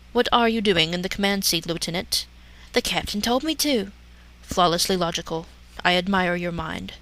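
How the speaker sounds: hint of cool Vulcan calm; hammy stage actor. Spock voiced in parody.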